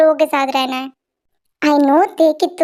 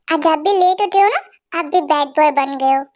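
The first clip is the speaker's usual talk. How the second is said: put-on small child voice. Little boy teasing his aunt in a childlike voice. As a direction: play a cheeky little kid showing off.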